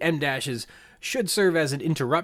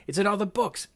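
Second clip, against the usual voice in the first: insistent exclamation; 9 semitones higher than usual. Acted. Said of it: "exclamation mark".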